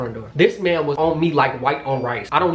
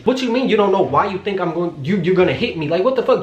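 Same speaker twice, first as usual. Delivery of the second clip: higher, incredulous tirade; indignant retort; 4 semitones higher than usual. Retold or imitated. Woman answering boyfriend who says he won't hit her, indignant. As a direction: throw his words back at him, fed up. Acted retort in retold fight.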